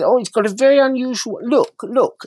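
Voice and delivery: high, loud and insistent; posh dealer making a point. Retold or imitated. Dealer pointing out the maker's mark, high and emphatic. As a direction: press the point in a lofty voice. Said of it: "as if to make a point".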